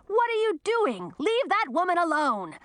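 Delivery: high-pitched alarmed shout. A narrator's reading. Grandson confronting his grandmother over roaring wind, shouting. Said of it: "Audun shouted over the roar".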